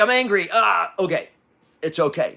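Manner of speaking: brushing off I'm angry casually; lightly shrugged-off I'm angry, no force; dismissive self-talk. Retold or imitated. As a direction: say I'm angry then wave it away. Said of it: "I would lie to myself and go like".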